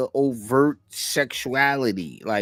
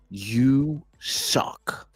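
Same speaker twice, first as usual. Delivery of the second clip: whisper. Pretend. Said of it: "let me get closer to the mic to say this".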